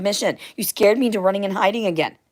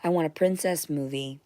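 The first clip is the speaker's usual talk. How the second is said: whisper; 3 dB quieter than usual. Real, not acted. Repeats wish whispered.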